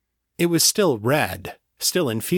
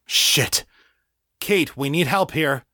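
alarmed call; 5 semitones higher than usual. A narrator's reading. Janet unresponsive, calls for help.

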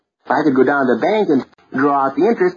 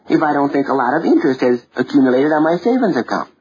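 easy and casual. Shown as a demonstration. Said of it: "easy and casual".

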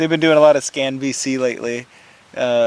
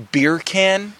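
higher-pitched mock English accent; 7 semitones higher than usual. Shown as a demonstration. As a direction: say "beer can" as a put-on English accent. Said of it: "in an English accent".

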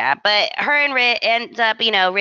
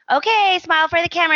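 higher, fast coaxing; mock parent voice; 9 semitones higher, faster than usual. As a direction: coax a child for a photo. Voicing adult to little kid.

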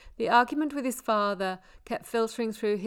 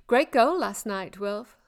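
louder, cheerful call across the field; shouting; 6 dB louder than usual. Acted. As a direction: call out praise to a star player. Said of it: "several of the girls shouted".

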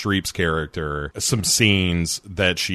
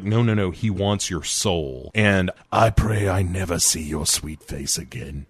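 put-on English accent. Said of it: "a singer does a much better English accent".

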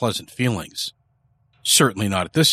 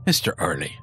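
lower, measured, doubting question; skeptical; 4 semitones lower, 5 dB quieter than usual. A narrator's reading. Skeptical priest questioning a frightened man, doubtful. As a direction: question him with quiet doubt. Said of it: "approached with a skeptical look".

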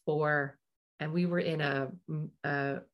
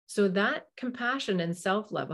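ordinary delivery

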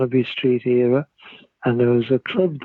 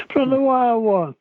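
excited; 11 semitones higher than usual. Real, not acted. Amazed at meeting Marlon Brando.

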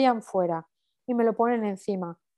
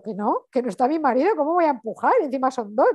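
indignant protest; 3 semitones higher, 4 dB louder than usual. Retold or imitated. Acted protest, husband not there yet.

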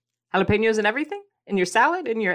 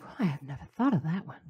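surprised viewer; 3 semitones lower, 9 dB quieter, faster than usual. Retold or imitated. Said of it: "You're like".

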